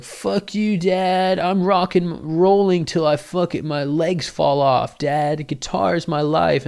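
put-on high, loud rocker kid; rebellious teen. Son declaring his guitar dream to his dad, high and defiant. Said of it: "you're like".

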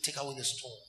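low, soft mock command; hushed deep imitation, sliding into tongues; Pastor Chris. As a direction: quietly intone it like a composed preacher. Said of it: "he begins to go like that".

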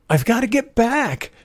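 high, urgent insistence; desperate. A narrator's reading. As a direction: plead as if everything depends on it. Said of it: "George said desperately".

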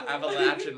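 "Appalachian" as appa-LATCH-un, said loudly; local pronunciation. Real, not acted. Laying down local rules, "Appalachian" with LATCH. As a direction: punch "Appalachian" with a short A. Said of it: "I almost said Appalachian".

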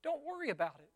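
mock-soothing bystander; breezy reassurance. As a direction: brush the worry away lightly. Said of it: "someone comes along and they're like".

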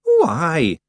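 pleased little Scottish chief; proud. A narrator's reading. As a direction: own up to it proudly. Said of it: "said Rob with pride".

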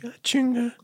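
high, startled exclamation; hammed-up disbelief; mock surprise. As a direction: act stunned and joking. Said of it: "Yo dije".

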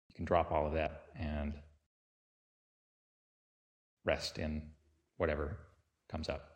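unhurried meditation guide with long pauses between phrases; guided meditation. Real, not acted. Teacher leading listeners through a body sweep, calm guided-meditation delivery.

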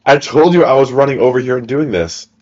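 mildly mock-annoyed dude; exasperated gamer. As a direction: scold the looting teammate. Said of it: "And I'm like".

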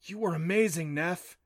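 a touch of amazement; admiration. A narrator's reading. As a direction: praise with wonder in the voice. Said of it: "said with admiration".

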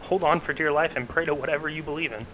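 lightly voiced airline safety announcement; a hint of a flight attendant, slowed. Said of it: "you wanna announce to the fucking airline flyers the safety procedures".

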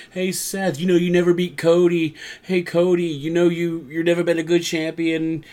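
playful imitation of a heckler; mock taunting. Acting out taunts at wrestlers.

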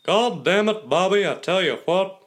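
exasperated swooping twang on each phrase; Hank Hill. Acted. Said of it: "Hank Hill, I do like very good".

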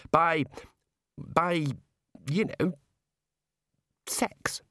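stammering, then whispering the word; blushing, trailing into a whisper; embarrassed hesitant stammer. A narrator's reading. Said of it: "feeling a blush start".

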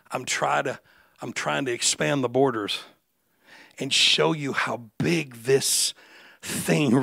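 tender whispered Jesus. Acted. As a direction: gently confide it to the crowd. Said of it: "he was telling them".

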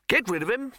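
high-pitched firm order. A narrator's reading. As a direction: order it with no room for argument. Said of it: "said the Arch-Chancellor firmly".

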